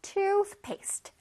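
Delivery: "toothpaste" with TOOTH high and long; stress on first syllable. Shown as a demonstration. Teacher shows children the stress, TOOTH stressed. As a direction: lean on TOOTH in "toothpaste", let paste fall. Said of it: "앞부분에 강세가 있어요".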